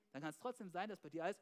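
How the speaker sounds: usual speaking voice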